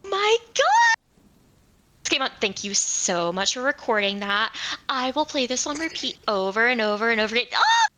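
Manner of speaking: delighted gushing with high squeals; squealing in delight. Acted. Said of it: "absolutely, like, squeal in delight".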